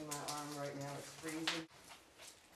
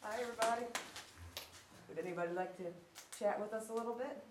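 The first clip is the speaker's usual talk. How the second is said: talking to a ghost. Real, not acted. Calling out to spirits in room.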